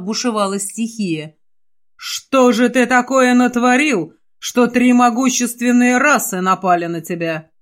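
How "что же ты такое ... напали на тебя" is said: stern reproach. Acted. Father scolds his son.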